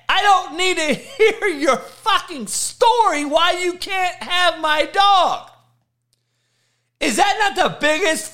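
shrill, shouted, high-pitched outrage at a flaky dog adopter; furious high rant. Acted. Ranting at someone who won't take his dog, screaming high and furious. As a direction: yell it way up high, fed up and disgusted.

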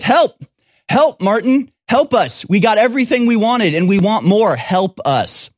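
high, whiny cry of help, mocking the gymnasts; mock plea for help. Commentator mocks the gymnasts begging the athletic director, high whiny mock plea. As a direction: parody a helpless plea.

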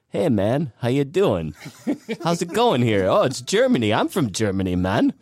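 mock accent of a dude claiming to be German; silly fake accent. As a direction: ham up a mismatched foreign accent. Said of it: "we were gonna do accents all the way through Epcot".

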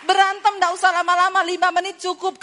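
preacher's punchy repeat for applause. Shown as a demonstration. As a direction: say it again so the crowd claps. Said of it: "Tepuk tangan dong".

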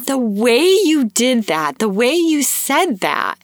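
high-pitched, tickled retelling; imitating amused cashier. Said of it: "she starts cracking up, the cashier".

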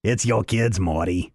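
lightly voiced gravelly Rick; a touch of rasp, tired old scientist. Host doing Rick telling Morty about his kids, mild rasp. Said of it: "a gravelly Rick".

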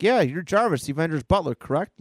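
lightly voiced pushy kid; eager boy. Boy questions the butler at the door, lightly insistent.

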